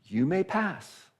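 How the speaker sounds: high, slow solemn surrender; defeated Sphinx. Acted. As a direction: yield with grand ceremony. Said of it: "And the Sphinx goes".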